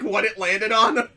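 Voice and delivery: ordinary talk, nothing marked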